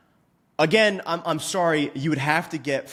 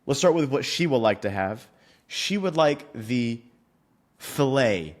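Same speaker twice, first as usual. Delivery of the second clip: courteous gentleman; slower than usual. Retold or imitated. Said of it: "because he's a gentleman".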